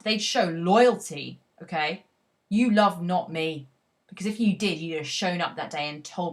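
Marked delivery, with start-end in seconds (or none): 2.5-6.3 "You love not me" flung out louder, as an accusation; impassioned accusation. Acted. Teacher voicing the jilted speaker accusing her, loud and hurt. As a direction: read it as the hurt lover, "Because if you did" pressed hard. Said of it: "his big guilt trip is".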